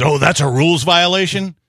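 prissy know-it-all golf snob; mock the fussy rules stickler; snooty golf fan. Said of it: "who calls in and says".

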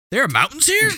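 high, incredulous mock tourist; hammed-up astonishment, pitch swooping up; clueless tourist. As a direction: marvel like a baffled tourist. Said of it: "I was walking around asking people".

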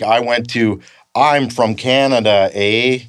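exaggerated Canadian accent. Shown as a demonstration. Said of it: "you don't say like that".

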